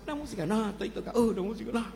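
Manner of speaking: abuelo exaltado, más alto y más fuerte; prohíbe la música con firmeza; abuelo enojado. Acted. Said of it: "El abuelo". (abuelo que prohíbe la música al nieto, exaltado)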